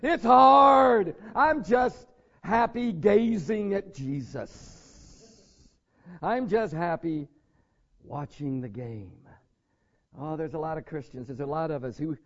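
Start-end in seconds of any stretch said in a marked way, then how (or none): 0.0-9.1 slow, whiny refusal fading into contentment; reluctant believer. Retold or imitated. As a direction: drag it out, unwilling. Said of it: "And we're going".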